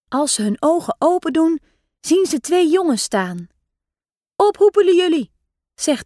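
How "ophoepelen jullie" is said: higher, louder rude dismissal; a bully shooing little kids off; mock angry bark; bossy order. A narrator's reading. Bully orders them away.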